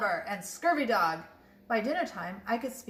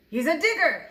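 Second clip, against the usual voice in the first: loud, higher call back to the crew; pirate yell; 5 semitones higher, 6 dB louder than usual. A narrator's reading. Head pirate telling his crew about the boy, yell. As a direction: shout it across the beach. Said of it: "then yelled back to his crew".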